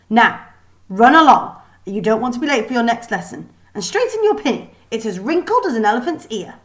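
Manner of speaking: loud, scolding schoolmistress voice; a bossy headmistress telling off a pupil; stern teacher. Acted. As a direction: wag a finger and lay down the law. The Kraken scolds Lily.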